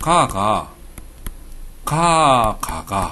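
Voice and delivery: Gyeongsang regional speech. Showing the audience how the phrase can be said, in gyeongsang dialect. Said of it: "경상도 사람들은 다 이해를 하실 텐데".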